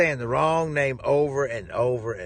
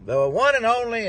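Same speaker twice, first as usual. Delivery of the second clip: Nigerian host; 7 semitones higher, 3 dB louder than usual. Retold or imitated. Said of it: "and he says".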